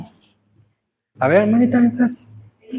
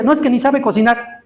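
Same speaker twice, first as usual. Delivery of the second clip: lightly mimicked, higher-pitched protest; young man's excuse; 5 semitones higher than usual. Young man refusing to marry his girlfriend, mock protesting.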